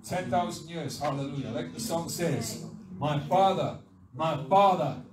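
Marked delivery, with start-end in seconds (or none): 3.0-5.0 loud, joyful declaration of thanks; preacher's loud, heartfelt cry; fervent proclamation. Acted. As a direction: proclaim it to the whole church. Preacher proclaims song's words to congregation.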